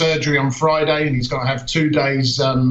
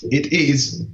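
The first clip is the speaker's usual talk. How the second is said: put-on slow, drawn-out Italian accent on Andrea Muzzi; slow sultry Italian accent, on request; sexy Italian accent; much slower than usual. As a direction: purr the name Italian style. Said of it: "say it in a sexy Italian accent".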